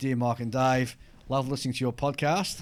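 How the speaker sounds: ordinary talk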